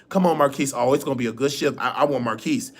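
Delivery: a hint of nurses glad to see him; happy nurses. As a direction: nurses cheering for their favourite aide. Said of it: "they love me".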